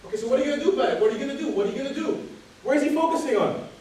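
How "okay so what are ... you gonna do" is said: raised, louder repeated question; insistent pressing. Retold or imitated. Speaker pressing complaining friend for an answer, insistent. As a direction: hammer the question at him, mock-exasperated.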